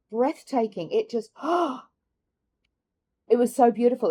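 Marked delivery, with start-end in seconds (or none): 1.3-1.8 a sharp high gasp of awe; admiring gasp. Real, not acted. Seeing the crystal star on display, a high awed gasp. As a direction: catch your breath at something beautiful.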